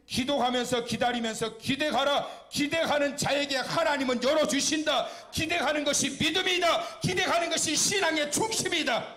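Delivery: loud, high, impassioned proclamation; rousing sermon climax, pitched high and forceful; full-force preaching. Real, not acted. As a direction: drive each declaration home at a shout.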